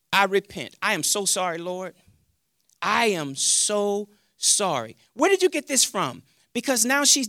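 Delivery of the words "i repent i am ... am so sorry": soft, low, humbled apology; contrite repentance. Retold or imitated. Preacher repenting to the Lord, contrite and hushed. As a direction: apologise gently, slowing to a halt. Acted repentance in prayer to God.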